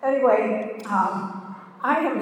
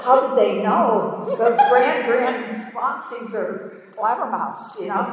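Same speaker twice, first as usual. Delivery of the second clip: laughing complaint; 3 dB louder than usual. Retold or imitated. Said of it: "I thought".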